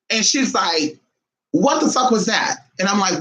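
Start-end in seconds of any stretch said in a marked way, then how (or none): 1.5-2.6 higher, imitated startled demand; dramatic alarm. Cousin startled by a voice in her ear, dramatic. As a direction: act out a dramatic friend's fright. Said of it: "'cause she's very dramatic".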